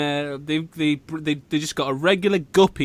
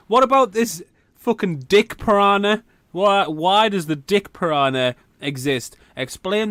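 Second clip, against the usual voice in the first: mocking challenge; 3 semitones higher than usual. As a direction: throw it at them like a gotcha. Challenging a devout Christian.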